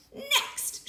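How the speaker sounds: high breathy crow. A narrator's reading. Creature crowing orders at the piglet. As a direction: crow it triumphantly. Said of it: "she crowed".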